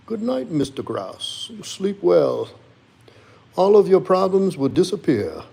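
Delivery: high, loud voiced dog saying good night; pet's voice. Streamer voices his dog saying good night to chat, high pet voice. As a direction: speak as the pet, squeaky and sweet.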